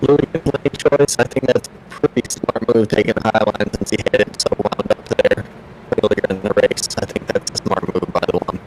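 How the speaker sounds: glitchy robotic voice over a bad line; distorted, robotic connection. Real, not acted. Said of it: "you do sound like a robot right now".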